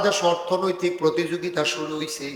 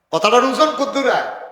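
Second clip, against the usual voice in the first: raised question; 6 semitones higher, 4 dB louder than usual. Shown as a demonstration. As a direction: ask it again higher, pressing the crowd.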